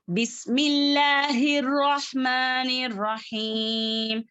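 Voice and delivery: slow, sustained recitation with long vowels; Quran recitation. Shown as a demonstration. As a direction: recite the opening measuredly on a level note. Recites verse in Quran lesson.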